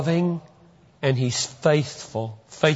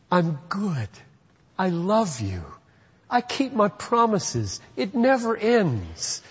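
tender voice of God; 5 semitones higher than usual. Acted. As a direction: speak as a loving God making a promise. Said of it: "And I hear that kind of voice".

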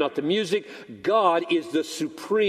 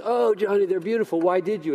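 lightly voiced pleased wife, higher; touched, higher on the "oh"; delighted wife; 4 semitones higher than usual. Wife thanking husband for flowers, delighted.

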